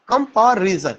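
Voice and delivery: "कंपैरिजन" held on "पा" before "रिजन"; syllable break demo. Shown as a demonstration. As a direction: say "कंपैरिजन" as "कम-पा", brief hold, "रिजन". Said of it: "फिर पा पे रुक रहा है". ("कंपैरिजन" में "पा" पर रुककर)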